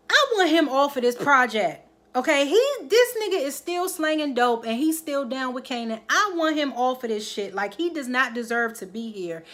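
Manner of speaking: angry demand. Retold or imitated. Ghost to Tate, demanding a man off the project, heated. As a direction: reenact the angry boss, voice climbing.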